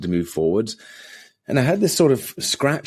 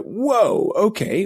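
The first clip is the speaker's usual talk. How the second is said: taken aback; 13 semitones higher, much slower than usual. Retold or imitated. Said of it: "I was like".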